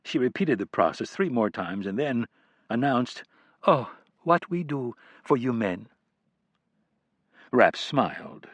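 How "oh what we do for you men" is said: put-on a light French accent, wry and tired; slight French accent. A narrator's reading. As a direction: say it with just a trace of French accent. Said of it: "a slight French accent from the woman".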